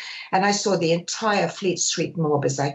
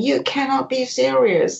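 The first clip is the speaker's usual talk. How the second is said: retold tantrum, higher and slow; McEnroe; 5 semitones higher, 4 dB louder than usual. Tennis player having a temper tantrum on centre court, imitated outrage. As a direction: draw out a mock-outraged protest. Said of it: "having a temper tantrum and saying".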